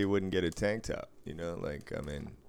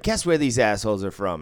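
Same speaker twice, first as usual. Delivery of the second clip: retold indignation; 3 semitones higher, 7 dB louder than usual. Retold indignant woman asking him.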